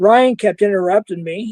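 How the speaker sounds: plain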